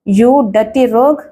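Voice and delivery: slow, drawn-out "You dirty rogue!"; a lightly acted furious shout; mild mock yell. Hero shouting at the villain, a mild drawn-out yell. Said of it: "గొంతు చించుకుని అరిచాడు రాజేష్".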